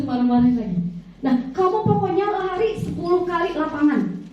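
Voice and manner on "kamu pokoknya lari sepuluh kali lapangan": mock punishing order. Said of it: "Nadanya tinggi".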